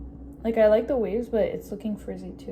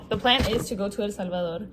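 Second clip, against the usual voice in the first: English sentence, El Salvador pronounced in Spanish; Spanish accent on name. Shown as a demonstration. Vlogger restating her travel plan, Spanish accent on the name.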